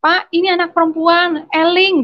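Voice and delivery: high, drawn-out plea to stop; retold neighbours' cry. Neighbours begging an angry father to be patient, high retold cry. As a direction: call out as alarmed neighbours, pitched well up. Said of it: "tetangga-tetangga tuh teriak".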